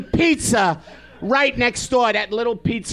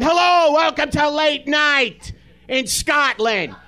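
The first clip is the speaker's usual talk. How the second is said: put-on Brooklyn accent; 3 semitones higher than usual. Comic imagining a Brooklyn host, hammed-up Brooklyn accent. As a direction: belt the hello like a Brooklyn guy. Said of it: "a guy from Brooklyn going".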